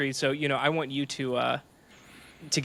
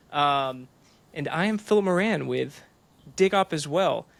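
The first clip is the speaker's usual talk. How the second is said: radio voice. Acted. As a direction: announce it like a radio host. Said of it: "how'd you like my, my radio voice intro there?".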